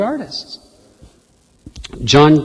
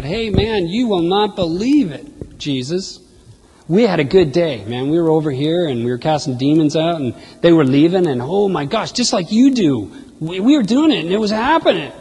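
tumbling over yourselves with excitement; ecstatic report. Retold or imitated. Disciples ecstatic after casting demons.

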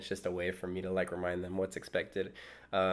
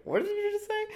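shocked teacher; 4 dB louder than usual. Retold or imitated. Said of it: "the other teacher looked at me like".

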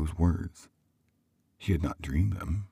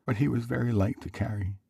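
higher-voiced mother reminiscing; tender mother; 8 semitones higher than usual. Mother intent upon her work, tender high voice. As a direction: remember fondly in a raised mother's voice.

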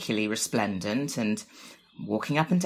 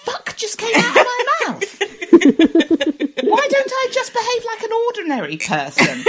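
laughing; 7 dB louder than usual. Real, not acted. Mortified at herself, laughing.

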